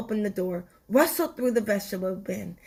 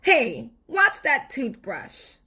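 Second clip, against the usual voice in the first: tooth shouting; 4 semitones higher than usual. Acted. Tooth yells at Stuart's toothbrush, a mild shout. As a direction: yell in alarm at the toothbrush. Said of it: "shouted the tooth".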